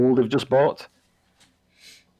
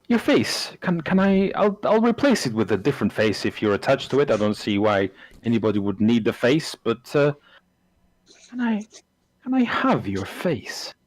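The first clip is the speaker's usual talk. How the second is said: eager creepy abbot. Acted. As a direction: keep begging for the face, thrilled. Abbot keeps pleading for face.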